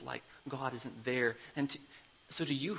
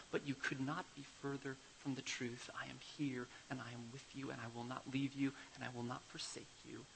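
tender comfort; 4 dB quieter than usual. Retold or imitated. God comforts like the father.

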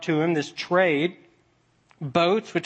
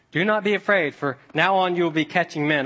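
mock comforting. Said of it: "Very comforting, huh?".

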